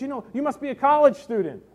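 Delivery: high, quick imitation of a pastor's wife; Southern pastor's wife. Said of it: "she was the stereotypical Southern pastor's wife".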